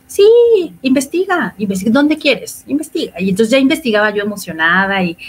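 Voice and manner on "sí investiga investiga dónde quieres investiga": mock breezy encouragement, pitched up; retold offhand yes from a partner; airy agreement. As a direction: imitate an easygoing, lilting go-ahead.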